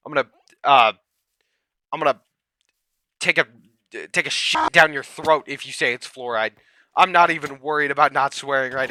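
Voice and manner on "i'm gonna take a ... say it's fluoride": heated. Real, not acted. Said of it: "I'm heated".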